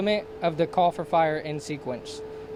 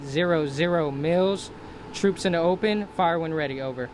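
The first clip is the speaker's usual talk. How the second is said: calm radio fire call. Shown as a demonstration. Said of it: "demonstrate how to properly transmit a call for fire".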